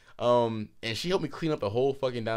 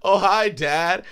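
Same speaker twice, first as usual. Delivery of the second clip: slow, loud, tipsy "hi Dad"; tipsy greeting; 7 semitones higher, 8 dB louder, much slower than usual. Retold or imitated. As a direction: play it drunk and innocent. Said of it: "You sound like an early two thousands guy".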